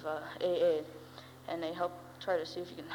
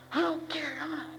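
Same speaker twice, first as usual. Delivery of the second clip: defiant stepdad; 9 semitones higher than usual. Retold or imitated. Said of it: "he's sitting there".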